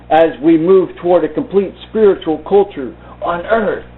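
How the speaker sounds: measured, dramatic read of a back-cover blurb; book blurb reading. Acted. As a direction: build intrigue as if selling the book.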